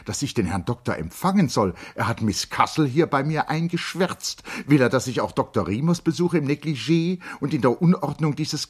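high, loud indignant refusal; agitated. A narrator's reading. Charlotte refusing to receive the doctor, high and agitated.

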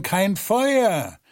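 „Feuer“ höher gesetzt und fallend, ratlos weitergegeben; „kein Feuer“ höher und ratlos. Acted. Flurleute wiederholen ratlos die Botschaft. (die Flurleute geben ratlos höher „kein Feuer“ weiter)

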